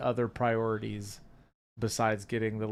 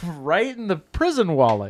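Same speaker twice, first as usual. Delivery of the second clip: louder, higher, laughing repeat; 5 semitones higher, 9 dB louder than usual. Real, not acted. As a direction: say it again loud so they hear. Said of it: "And right what?".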